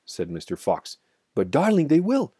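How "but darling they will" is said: high, loud, distressed pleading; storyteller's mock sob, high-pitched; narrated sobbing. A narrator's reading. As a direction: act a tearful protest with the pitch pushed right up. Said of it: "sobbed Missus Fox".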